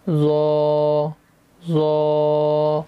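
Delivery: زو thick, no whistle; heavy zo. Shown as a demonstration. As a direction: say زو heavy and full. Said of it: "اس کو بھی موٹا پڑھنا ہے". (زو موٹا، بغیر سیٹی)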